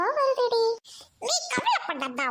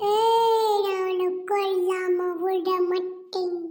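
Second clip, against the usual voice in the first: slow, stretched ghostly threat; loud opening, then drawn-out menace; menacing ghost; 3 semitones lower, 3 dB louder, much slower than usual. Acted. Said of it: "நான் தான் பேய்".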